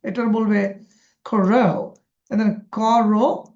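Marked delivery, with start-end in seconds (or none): 1.2-3.4 put-on English accent in Bengali. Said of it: "রো জোরে বলবে".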